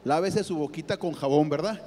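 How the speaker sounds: a hint of a stern father, low and dry; fatherly scolding. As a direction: tease him like a parent scolding a child. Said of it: "Como diciéndole".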